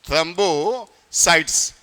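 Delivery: थ्रोम्बोसाइट्स drawn out syllable by syllable, slowly; slow, spelled-out term. Shown as a demonstration. Teacher dictating थ्रोम्बोसाइट्स to students, slow and deliberate. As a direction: say थ्रोम्बोसाइट्स slowly so the class can write it. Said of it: "एक क्या था भैया?".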